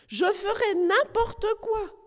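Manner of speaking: high, slow shouted plea; crying out. Acted. Knight still shouting his promise to Polly, slow and high. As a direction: stretch out "n'importe" in a pleading cry. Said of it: "continua à crier messire Grognon".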